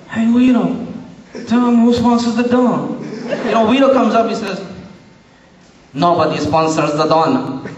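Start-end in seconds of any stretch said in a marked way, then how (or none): 0.1-3.0 lightly voiced mumbling mafia boss; Don Corleone. Don telling his sidekick to answer, mumbled boss voice. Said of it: "So he goes like". 5.9-7.6 lightly put-on Italian-accented henchman, lower. Sidekick Vito warning the interviewer, low Italian-accented threat. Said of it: "he's in his special Italian accent".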